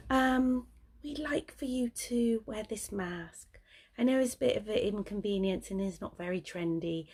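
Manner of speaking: a hint of an apologetic nurse; sheepish nurse. Nurse to patient, mildly imitated as sheepish and apologetic. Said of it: "she's all sheepish".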